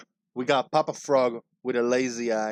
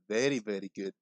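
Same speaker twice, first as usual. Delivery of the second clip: put-on Borat accent; 3 semitones lower, 3 dB quieter, faster than usual. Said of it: "Try to do the Borat".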